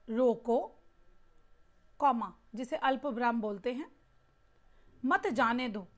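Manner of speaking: रोको said alone, a pause, then मत जाने दो; pause after रोको. Shown as a demonstration. Teacher showing how a comma changes meaning, pause after रोको. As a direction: break right after रोको, keep मत with जाने दो. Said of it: "तो वाक्य में अगर ये ठहराव ना हो".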